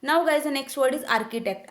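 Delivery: very slow, each word spaced out; slow word announcement. Shown as a demonstration. Teacher announcing the next word to students, slow and deliberate. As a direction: announce the new word slowly and clearly.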